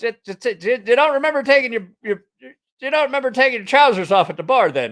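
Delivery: high, stammering mock British accent; botched British accent. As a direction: stutter in disbelief, bad British accent. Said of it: "can't do a British".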